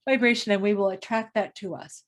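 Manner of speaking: words stretched by a yawn. Real, not acted. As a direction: talk through a real yawn. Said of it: "there's my yawn".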